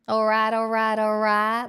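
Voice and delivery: Texan accent. Shown as a demonstration. Streamer showing chat how Texan differs, Texan accent. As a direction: push a Texan twang to the front of the mouth. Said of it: "Texan is a bit more in the front of the mouth".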